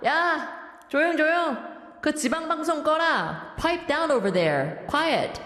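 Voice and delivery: put-on old-fashioned 늘크크 teacher. Radio host as 늘크크 hushes the chatter, mock scolding. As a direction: hush the room like a corny old-timer. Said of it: "늘크크 선생님 joining us in the studio reading out".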